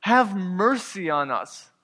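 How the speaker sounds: preacher's understated version of crying out; retold crying out. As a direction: call out for mercy, mildly. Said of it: "lifted up their voices and saying".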